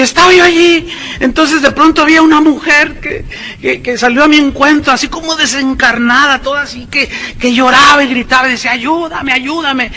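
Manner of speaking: voz aguda, medio riendo, de burla; parodia de la joven. Retold or imitated. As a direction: imitar a la joven con sorna. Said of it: "Y dice". (imitación burlona y aguda de la joven del disco)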